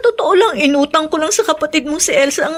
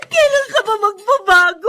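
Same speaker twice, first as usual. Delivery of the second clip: crying shout; 3 semitones higher than usual. Acted. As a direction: cry out at him through tears. Wife crying out at husband. (umiiyak na sigaw sa asawa)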